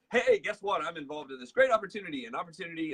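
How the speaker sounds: mock eager pitch. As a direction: imitate an over-eager recruiter. Mimics group pitching an opportunity.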